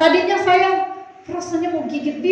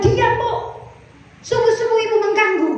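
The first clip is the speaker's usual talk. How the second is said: higher-pitched mock scolding; curt, snappish nurse; 4 semitones higher than usual. Nurse scolding labouring patient at dawn, imitated curt rebuke. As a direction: imitate a cross nurse telling someone off. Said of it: "Susternya pun ketus-ketus, judes-judes".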